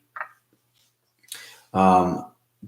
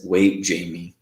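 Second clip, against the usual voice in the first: low, calm retold voice; 4 semitones lower than usual. Host quotes a spirit voice heard calling Jamie, calm. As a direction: say it evenly and lower, unhurried. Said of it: "this voice so calmly says".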